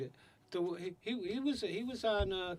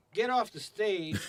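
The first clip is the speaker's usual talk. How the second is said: slow, drawn-out yell from the crowd; heckling yell; 4 semitones higher, slower than usual. Retold or imitated. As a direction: call it out like an annoyed audience member. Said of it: "they will yell out".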